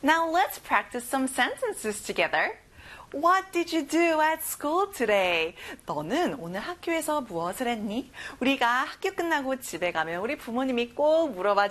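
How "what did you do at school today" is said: each word slow and separate, stress on "what"; very slow model sentence. Shown as a demonstration. Teacher reads the sentence very slowly for children to copy. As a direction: spell the sentence out slowly for students to follow. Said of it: "같이 따라해볼까요".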